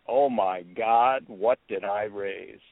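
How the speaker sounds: slow, drawn-out motherly dismay; lightly voiced mom. Son quotes his mother's blurb for his book, lightly voiced mom. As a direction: mildly imitate an exasperated mother, slowly. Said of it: "this is my mom talking".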